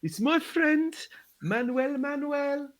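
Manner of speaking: high, carnival barker calling out to the crowd; hype man announcer. Acted. Hype man calls the crowd to the shin-kicking, barker voice. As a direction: gather them round like a fairground crier.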